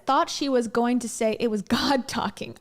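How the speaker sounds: lightly voiced dramatic visionary; mock vision story. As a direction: tell the heavenly vision with mock awe. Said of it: "Sorry Shepherd says".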